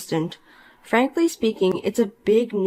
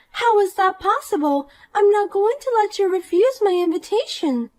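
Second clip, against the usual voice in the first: put-on bright, higher voice of a smug mean girl; snide rich girl; 11 semitones higher than usual. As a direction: talk down to her with sweet contempt. Poppy refuses refusal.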